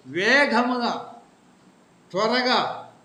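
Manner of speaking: slow stretched emphatic word; preacher drawing out వేగముగా again; fast. Shown as a demonstration. Preacher repeating వేగముగా to the flock, slow and stretched.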